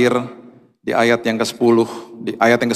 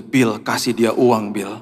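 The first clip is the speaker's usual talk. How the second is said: Holy Spirit's voice; 3 semitones lower, slower than usual. Retold or imitated. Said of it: "ada suara Roh Kudus bilang gini".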